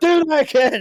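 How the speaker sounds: high, loud, frantic yell, wigging out. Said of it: "spazzing, just shaking me by my shoulder".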